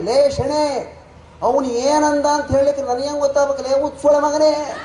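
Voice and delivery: a boss at his wits' end. Retold or imitated. Manager loses his temper.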